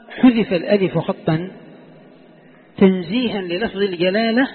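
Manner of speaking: slow, deliberate dictation. Shown as a demonstration. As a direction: dictate each phrase slowly. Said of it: "قالوا".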